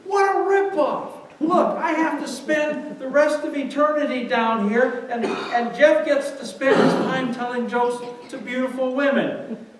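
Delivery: high-pitched hammed-up complaint, easing slightly; indignant mock yell. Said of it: "he yelled at Satan".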